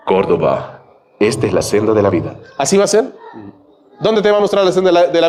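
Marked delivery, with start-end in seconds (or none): 0.1-2.4 angel voice. Pretend. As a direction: boom like a heavenly messenger. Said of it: "Un ángel". (voz de ángel grave y solemne)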